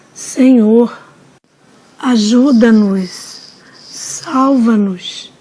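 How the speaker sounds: slow, drawn-out plea for rescue; súplica arrastada. Retold or imitated. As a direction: plead slowly, stretching each word. Multidão suplica ajuda ao Senhor. (súplica lenta e arrastada)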